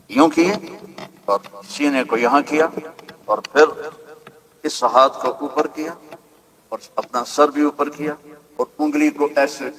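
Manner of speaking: put-on tender hush describing the baby; hushed storytelling. A narrator's reading. Hushed retelling of the infant's prostration.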